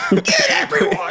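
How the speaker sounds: urging the hogs to attack, very high; gleeful battle cry. Acted. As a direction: egg the hogs on with glee. Cheering on the hogs.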